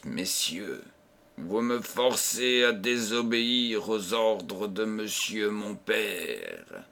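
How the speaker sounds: soft and level, without anger, slowing at the end; firm quiet warning, no scorn; calm, without mockery. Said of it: "disait sans raillerie, sans colère".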